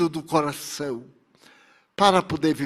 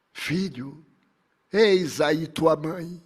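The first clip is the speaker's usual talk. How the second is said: softer, slow, solemn address; tender entrusting; 3 dB quieter, slower than usual. Acted. Dying master giving his mother to the young disciple, gently solemn. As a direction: hand her over gently and slowly.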